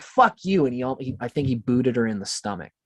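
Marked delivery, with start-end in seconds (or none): 0.0-0.6 mock angry snap. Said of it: "he was like".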